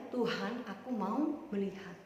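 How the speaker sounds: soft, low request to God; earnest plea. Acted. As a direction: ask humbly and quietly. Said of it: "dia bilangnya". (memohon dengan pelan dan rendah)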